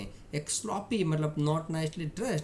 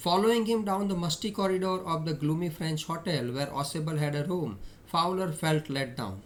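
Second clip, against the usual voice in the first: slow, measured read-aloud; reading story aloud; much slower than usual. A narrator's reading. Teacher reads the story text to students, measured reading. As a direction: read it out slowly, phrase by phrase.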